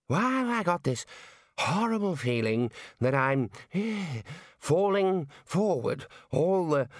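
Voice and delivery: put-on high, slow, halting old voice; feeble panicking elder. A narrator's reading. Aged Ponder describes his falling feeling, feeble slow panic. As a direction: quaver slowly, gasping mid-phrase.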